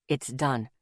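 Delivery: final and firm. A narrator's reading. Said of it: "in a voice that told me not to argue".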